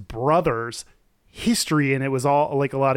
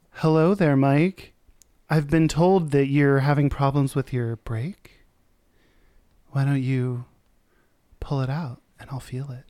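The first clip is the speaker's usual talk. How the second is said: sultry porn voice; 2 semitones lower than usual. Pretend. Porn-style roleplay seduction.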